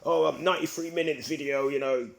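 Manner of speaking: mocking mimicry. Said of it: "kind of slight paraphrasing there".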